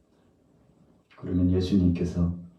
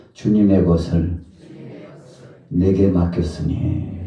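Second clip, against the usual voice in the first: loud, measured call to repeat; leading a recitation; 9 dB louder, slower than usual. Acted. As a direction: proclaim each phrase for the congregation. Leads congregation in repeating verse. (따라 하도록 크게 끊어서 선창)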